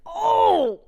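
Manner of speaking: high, loud worried gasp of "Oh"; mock anxiety. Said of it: "seeing that gives me anxiety".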